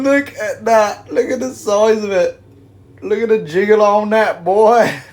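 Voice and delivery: loud, high-pitched hyped-up exclaiming; excited hype. Real, not acted. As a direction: shout it high, amazed at what you see. Hyped reaction to giant marshmallows.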